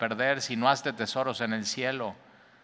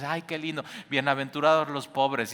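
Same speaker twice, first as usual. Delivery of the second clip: mock sweet delight; 2 semitones higher than usual. Naive listener hearing beatitudes.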